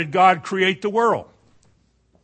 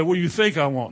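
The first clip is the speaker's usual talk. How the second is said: sarcastic retort. Pretend. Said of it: "he didn't talk like that then".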